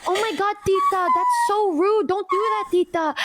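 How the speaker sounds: high scolding friend voice; mock scolding. Hami scolding mom at the concert, high mock scold. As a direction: playfully scold the auntie.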